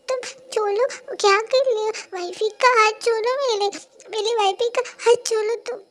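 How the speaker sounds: furious husband yelling; angry shout. Acted. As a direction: shout him off your wife. Husband confronting the attacker.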